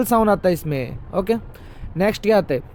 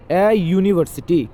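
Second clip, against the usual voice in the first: slow demo; slower than usual. Shown as a demonstration. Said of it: "क्यों होगा".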